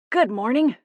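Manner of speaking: put-on bright, cheerful old lady greeting; bright grandma voice. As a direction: chirp it as a grandma. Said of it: "Grandma Rose said brightly".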